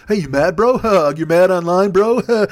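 dopey, goading troll; jeering bro heckle; mock online taunting. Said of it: "it's all the fucking".

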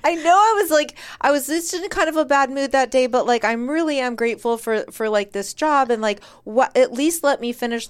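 high pleading start; begging. Retold or imitated. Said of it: "So I start begging a little bit".

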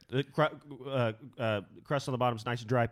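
strained mouthful tasting voice; mouth full, choking. Pretend. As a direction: choke out the words through food. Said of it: "The way you do it is like you're choking".

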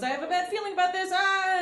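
mock dread. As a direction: brace for the ice hole. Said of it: "and he goes".

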